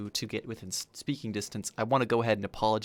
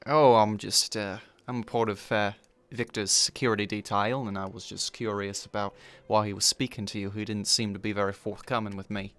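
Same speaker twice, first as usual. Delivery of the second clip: put-on Australian accent slipping southern. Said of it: "Oh boy, getting southern there".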